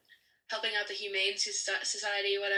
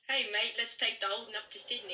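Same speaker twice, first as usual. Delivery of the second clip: Australian accent, mistaken for Cockney English; attempted Australian accent. Shown as a demonstration. American guest trying an Australian accent for podcast hosts, attempted Australian accent. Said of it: "Can you really quickly do an Australian accent for us?".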